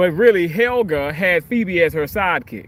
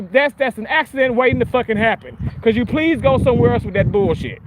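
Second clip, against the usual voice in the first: mock polite scolding; 3 semitones higher than usual. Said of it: "I'm gonna politely say".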